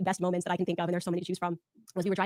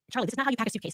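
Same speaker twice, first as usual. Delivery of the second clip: lightly nagging spouse; mild mock bickering; 4 semitones higher, faster than usual. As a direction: scold him like a long-married partner. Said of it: "bickering like an old married couple".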